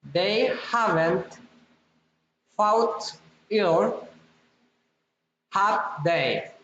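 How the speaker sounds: "have they" drops at the end; falling tag question. Shown as a demonstration. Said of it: "falling or rising intonation".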